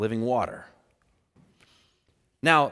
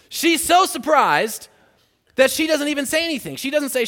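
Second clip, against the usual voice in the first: emphatic; 7 semitones higher, 5 dB louder than usual. Real, not acted. Emphatic storytelling.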